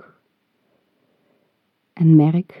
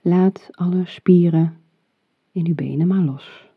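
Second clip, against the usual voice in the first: right in your ear. Acted. Whispered slow relax cue.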